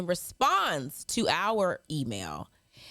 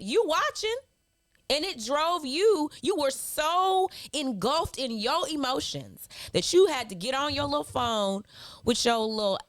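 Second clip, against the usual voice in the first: higher, sneering put-down of a troll; mocking taunt; 5 semitones higher than usual. Real, not acted. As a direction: talk down to them with mock pity. Mocking a hateful commenter directly.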